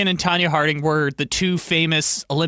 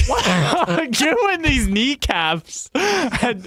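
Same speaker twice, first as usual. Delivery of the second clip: put-on old lady voice; 6 semitones higher, much slower than usual.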